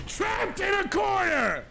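furious repeat, shouted; shouted trapped in a corner. Real, not acted. Yelled second take.

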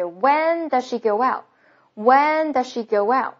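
slow "does she" as "duh-shee", "go well" as "go-wow"; linked, dropped endings. Shown as a demonstration. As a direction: link "when does she go well" with no final t. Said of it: "后面结尾字母T去掉". (慢速连读：does she 去 z，go well 去 t)

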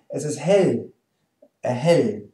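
"hell" with a light L, as in British "lift". Shown as a demonstration. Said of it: "like in lift in British English".

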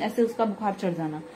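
normal talking voice

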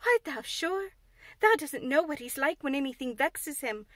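fearful, urgent telling; anxious Martha. Acted. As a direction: maid warning Mary about Colin's rages. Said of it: "cried Martha".

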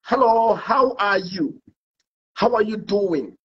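slow, mannered British English greeting; posh British accent. Pretend. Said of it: "I want to change the mood".

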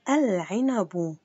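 العنب very slowly, l sounded, ending -u; al-'inabu, stretched. Shown as a demonstration. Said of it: "سأعيد قراءة الكلمات".

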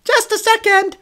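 very high, loud cartoon squawk; slow, piercing puppet-like yell; cartoonish gangster. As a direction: call it out like a children's TV puppet. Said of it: "like a character from a children's T V show".

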